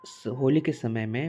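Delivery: "होली के समय में" धीमे, रुक-रुक कर; बच्चों को समझाने के लिए धीरे कहो; धीरे बोलना. Shown as a demonstration. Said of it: "अब थोड़ा सा स्लो बोलता हूँ". (धीमी, साफ़ बोली)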